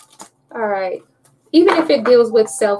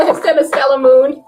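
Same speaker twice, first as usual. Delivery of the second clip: laughing; 3 semitones higher, 5 dB louder than usual. Real, not acted.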